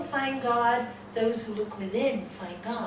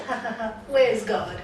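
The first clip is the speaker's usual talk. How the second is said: mocking friends; 6 dB louder than usual. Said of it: "his friends are laughing".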